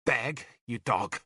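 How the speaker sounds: slow contempt; slow scorn. Acted. Nimue scorns the bishop, slow and contemptuous. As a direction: spit the word beg.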